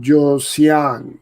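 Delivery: Josian sounded out slowly as a tentative attempt; unsure name pronunciation. Real, not acted. Trainer struggling with a viewer's name, tentative Josian. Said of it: "I'm sorry that I'm butchering it".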